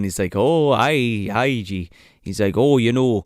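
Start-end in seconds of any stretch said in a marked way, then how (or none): 0.3-1.9 low, lightly put-on Scottish accent; a hint of a hammy Scotsman; throwaway imitation of a Scottish accent; mock Scottish. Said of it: "starts with the fucking Scottish shit again". 2.6-3.2 lightly put-on Scottish accent; throwaway imitation of a Scotsman; a hint of Scottish, mockingly; mock Scottish. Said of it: "saying Scottish shit".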